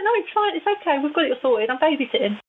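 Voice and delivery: high, breezy unbothered reply; carefree spirit voice. Pretend. Jimmy brushes off her worry, breezy and high-pitched. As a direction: toss it off like a cheerful kid.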